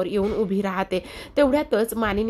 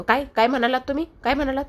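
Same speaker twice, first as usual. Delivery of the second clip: startled demand; 5 semitones higher, faster than usual. Acted. Parth overhears Kavya's insult.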